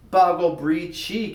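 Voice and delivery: high, slow garbled blurt; nervous garble. Acted. A nervous boy in class, blurting garbled words. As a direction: stumble out the nonsense nervously. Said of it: "whenever Robbie felt nervous".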